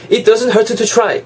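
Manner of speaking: both T's sounded separately in "hurt to", pitched high; over-articulated T's. Shown as a demonstration. Teacher showing what natives don't say, over-articulated T's. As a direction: say "hurt to" slowly with two full T's. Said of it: "이렇게 발음을 안 한다는".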